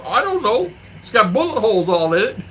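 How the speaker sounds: high-pitched mock bewilderment; retold exasperation. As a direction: imitate an exasperated, clueless victim. Retells friend's exasperated answer.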